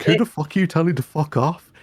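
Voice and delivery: mock-outraged quick comeback; mock angry retort. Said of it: "And then he was like".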